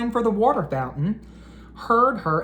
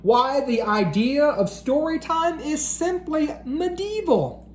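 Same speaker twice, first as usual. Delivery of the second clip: raised, scornful dismissal; mocking dragon voice; 8 semitones higher than usual. A narrator's reading. The dragon sneers at Miss Lemon's story time plea. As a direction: sneer at the very idea.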